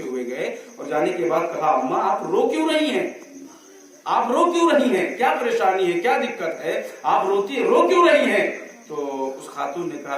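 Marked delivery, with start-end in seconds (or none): 1.7-8.6 put-on a concerned boy pleading, rising higher toward the end; worried child. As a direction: ask as a worried young boy, insisting. Boy anxiously asks weeping woman. (فکرمند بچے کی طرح، آخر میں بلند ہوتی آواز)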